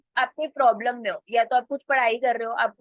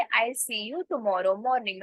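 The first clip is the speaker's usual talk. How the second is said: very slow, clear English demo; slow model sentence; much slower than usual. Shown as a demonstration. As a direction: spell it out slowly for learners. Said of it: "तो आप कैसे बोलोगे". (बहुत धीमे, साफ़ अंग्रेज़ी में)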